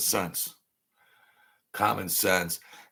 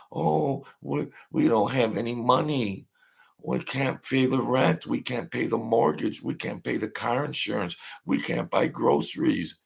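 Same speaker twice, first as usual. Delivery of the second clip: higher pitched whiny wife, pleading about money; mock whining wife; 5 semitones higher than usual. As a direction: play the broke mob wife begging. Mob wife voiced whining.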